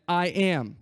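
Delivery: I AM said loud and firm; all caps emphasis. Shown as a demonstration. Preacher showing the original language's emphasis, I AM in all caps. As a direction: lean on "I am" as if in capitals. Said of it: "and then all caps again".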